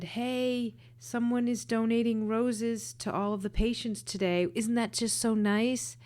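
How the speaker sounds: bubbly retelling of the patient's joy; retold excitement. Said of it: "she was all excited".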